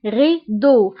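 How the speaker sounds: غيدو said as French rideau, uvular r; teacher modelling غيدو as French rideau; French word model. Shown as a demonstration. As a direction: say غيدو with a French rolled-back r. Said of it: "دونك أو".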